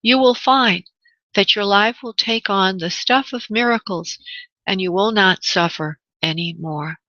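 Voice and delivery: slow, measured meditation closing; guided meditation. Real, not acted. Host closing a meditation for listeners, slow and measured. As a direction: close the meditation slowly and evenly.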